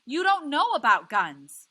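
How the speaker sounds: wife yelling at her husband, tearful and furious. A narrator's reading. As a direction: scream it through tears at your husband. Furious argument.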